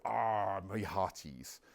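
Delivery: put-on a light West Country pirate accent. Lecturer lightly mimics the movie pirate's West Country accent. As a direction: toss off a mild stage-pirate West Country line. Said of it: "this is why we now think pirates go".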